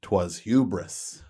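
low, hushed mock-grand narration; mock-solemn oration. Host lecturing friends on the Titanic, mock-solemn oration.

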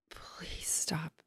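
whispered, begging him to stop; hushed plea, drawn out; pleading whisper. Retold or imitated. Whispering to her egg-faced brother, pleading.

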